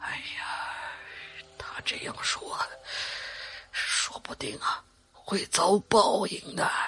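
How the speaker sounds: acted hushed, breathy, sighing lament, soft. Retelling great-grandfather's words after the board was broken: imitating a sighing lament. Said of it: "只是叹气".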